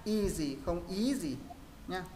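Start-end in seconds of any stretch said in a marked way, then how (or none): 0.0-0.6 Easy read level, with no rising tone on the stress; even, untoned Easy. Shown as a demonstration. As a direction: say Easy flat, no Vietnamese sắc rise. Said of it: "Đọc ngang thôi".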